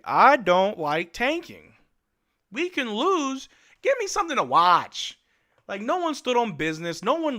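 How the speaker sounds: exasperated fan pleading for effort; frustrated rant. Real, not acted. Frustrated fan ranting at team.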